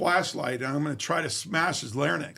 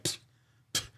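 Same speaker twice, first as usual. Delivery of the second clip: imitated spitting; 9 dB quieter than usual. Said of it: "he starts spitting".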